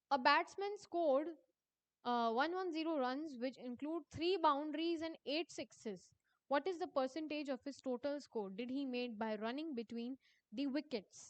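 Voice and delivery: reading the exam question aloud, slowly and deliberately. Acted. Teacher reading a quiz question to her students, slow dictation. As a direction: dictate each word to the class.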